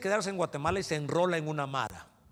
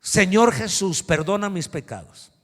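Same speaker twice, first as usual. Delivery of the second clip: slow, louder call to repeat after me; loud slow prayer over speakers; 3 semitones higher, 10 dB louder than usual. Retold or imitated. To Walter by loud speakers, slow loud prayer lead. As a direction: say each word loud and drawn out over the noise. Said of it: "Así que le digo".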